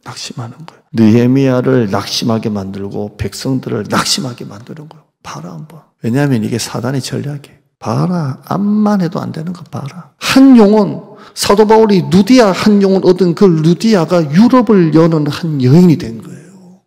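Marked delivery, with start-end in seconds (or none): 0.0-0.8 hushed unvoiced whisper; preacher hushing the congregation, whispered. 10.2-16.8 loud, high fervent preaching; full-force sermon climax; impassioned preaching. Acted.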